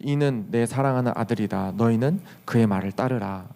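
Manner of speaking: low, measured divine pronouncement; lightly voiced God. God speaking from the cloud about his Son, lightly solemn. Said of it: "하나님 아버지의 음성이 들립니다".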